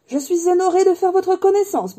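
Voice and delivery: high, loud, effusive character voice; honoured admirer. Acted. Fourth customer meeting Harry, high effusive greeting.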